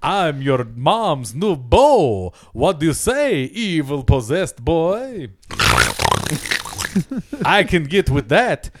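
Oldman Dracula. Retold or imitated. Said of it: "spot on Oldman Dracula".

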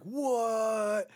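high, loud startled what; sports-bar shock. Retold or imitated. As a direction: react like you can't believe it. Shocked reaction to early TV feed.

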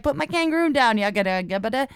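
mock Australian man, poorly imitated; bad Australian accent. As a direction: badly fake an Australian accent, then give up into nonsense. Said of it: "I can't do an Australian accent".

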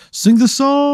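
high, squeaky fan voice; a fan yelling a request; demanding fan. Retold or imitated. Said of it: "people are just like".

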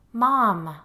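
high, loud whine to mother; child's protest. A narrator's reading. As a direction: object like a child being ordered about.

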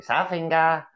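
"Sore finger" run together fast and high; said really fast. Shown as a demonstration. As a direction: rush "Sore finger" into one blurred word. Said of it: "sore finger really fast".

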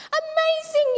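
high, loud amazed shout; crowd yell. Acted. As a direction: call it out as the astonished crowd. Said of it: "yelled the crowd".

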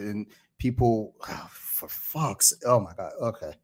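breathless, gasping between words; winded, struggling for air; out of breath. Real, not acted. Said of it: "Let me catch my breath real quick".

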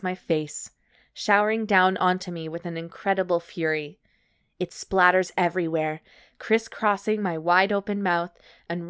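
measured, evenly paced read-aloud; story narration. Acted. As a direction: narrate it like an audiobook. Reads erotic story aloud.

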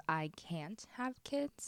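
"can't" drawn out and set apart; slow, deliberate wording with weight on "can't"; pointed stress on CAN'T. Retold or imitated. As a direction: quote it slowly, leaning on "can't". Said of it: "what he says very specifically is".

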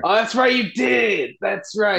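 high sudden mock realization; excited shout. Real, not acted. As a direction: burst out as if just remembering.

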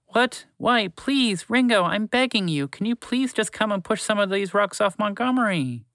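high, urgent little mouse plea; begging mouse. A narrator's reading. Mouse begging Ringo to move the rocks, urgent and high. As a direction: beg desperately in a tiny voice.

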